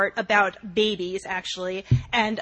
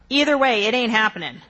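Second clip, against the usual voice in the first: louder, firm and final; emphatic refusal; 3 semitones higher, 5 dB louder than usual. Acted. Friend refusing the surrogate request, loud and firm. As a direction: shut the idea down flat out.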